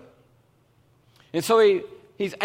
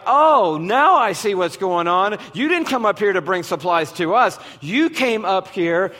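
accusatory tone. Retold or imitated. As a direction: catch him out, scornful. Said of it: "with this accusatory tone".

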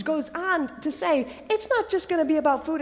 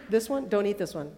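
low, softer, dropping further at the end; grave warning; 6 semitones lower, 9 dB quieter, faster than usual. Acted. God warning Adam and Eve off one tree, grave. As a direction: warn them quietly, with a pause before the consequence.

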